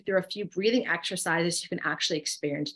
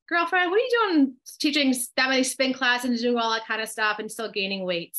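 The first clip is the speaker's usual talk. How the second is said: higher-pitched imitated friend's challenge, settling down; mock girlfriend scolding; 4 semitones higher than usual. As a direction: playfully confront a girlfriend, retold. Retold frank chat between friends.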